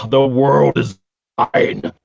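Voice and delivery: slow, triumphant proclamation; grand declaration. Retold or imitated. Grad boasting the world is his, grandly slow. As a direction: savor each word like owning the world. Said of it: "I was just like".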